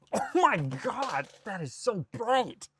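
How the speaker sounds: high, slow strained whine; dazzled squeal. Pretend. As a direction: squeal as if blinded by a bright light. Mock distress at dazzling light.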